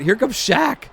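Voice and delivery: yelled heckle. Retold or imitated. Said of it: "So I yelled out".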